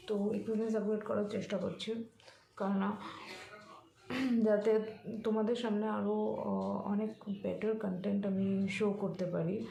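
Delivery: a bit hoarse, husky throat. Real, not acted. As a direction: speak with a slightly hoarse voice. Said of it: "আমার গলাটা একটু ভেঙে গেছে".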